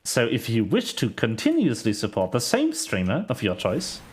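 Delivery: lightly voiced sales pitch with swooping emphasis; salesman. Streamer plugging Prime Gaming to viewers, mild salesman patter. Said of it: "I sound like a salesman".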